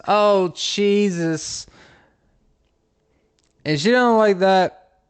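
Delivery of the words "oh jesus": high, very slow mock wail; drawn-out mock wail. Comic milks his own cheese joke, high and drawn out. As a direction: stretch each word out, pitched up. Pun groan escalates on third take.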